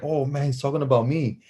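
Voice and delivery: voiced, mildly worried inner thought; imitated worried kid. Kid realizing the coach means him, mild worry. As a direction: replay the kid's realization aloud, without whispering. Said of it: "as a kid, I'm like".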